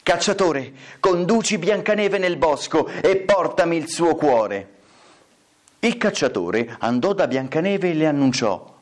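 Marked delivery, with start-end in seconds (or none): 0.0-4.7 stepmother. Acted. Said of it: "Poi riprese".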